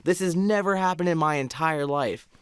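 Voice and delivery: high-pitched, emphatic no; retold anxious insistence; alarmed denial. Answering a scared friend about the haunting, alarmed denial.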